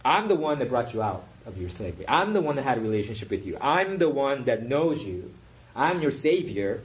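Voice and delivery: building, mildly impassioned declaration; lightly voiced divine plea, growing insistent; God's passion. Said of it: "feel God's passion here".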